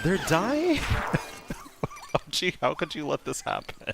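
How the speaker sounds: loud, high, laughing outrage; frantic yelling. Real, not acted. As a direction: shriek at the useless pet.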